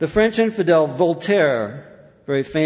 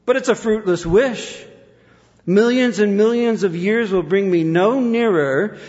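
retold anguished cry; 4 semitones higher, 3 dB louder than usual. Preacher quotes dying Newport on eternity in hell, anguished cry. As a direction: draw out a dying man's lament, pitched high. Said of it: "cried out in anguish as he was dying".

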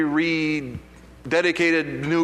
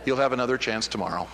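lower, softer, laughing as he quotes it; laughing through it; 7 semitones lower, 5 dB quieter, faster than usual. Retold or imitated. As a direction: chuckle the promise of tomorrow. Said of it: "the Holy Spirit said".

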